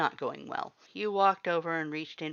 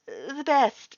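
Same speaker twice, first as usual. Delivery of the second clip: choked out; 12 semitones higher, 9 dB louder than usual. A narrator's reading. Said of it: "you choked out against his grip".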